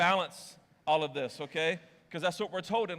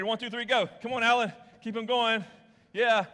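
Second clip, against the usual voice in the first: cheering; 6 semitones higher, 8 dB louder than usual. Real, not acted. Cheering volunteer Alan on.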